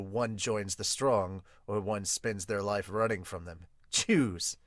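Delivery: an even fortune-teller laying out fate; low, cool Hawkins voice. Acted. Voicing Hawkins from manga.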